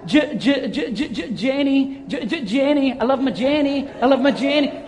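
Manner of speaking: acted God, thrilled and doting; joyful enthusiasm. God looking down on Jenny, joyful enthusiasm. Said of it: "the joy, the enthusiasm".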